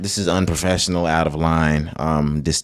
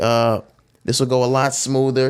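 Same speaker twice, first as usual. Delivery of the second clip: higher, lightly put-on cartoon voice; Family Guy Jesus; 6 semitones higher than usual. Recalling a cartoon scene for a co-host, light impression. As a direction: lightly imitate a cartoon holy man. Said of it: "he was like".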